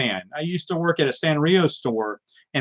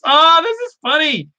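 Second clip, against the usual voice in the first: much higher and louder, tickled; delighted; 14 semitones higher, 5 dB louder than usual. Real, not acted. Showing the crowd his funny old comic, high delighted squeal.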